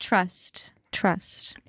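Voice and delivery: fading to a whisper. Pretend. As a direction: drop to a breathy whisper. Dramatic fading repeat.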